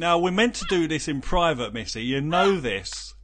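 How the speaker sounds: mock-chide a naughty partner; mock reproach. Playful mock scolding of flirty co-host.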